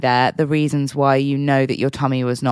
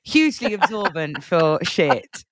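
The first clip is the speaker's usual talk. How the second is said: slow, higher sales-pitch voice; hammed-up product ad announcer; mock advert voice; 6 semitones higher, slower than usual. Mocking period pants advertising.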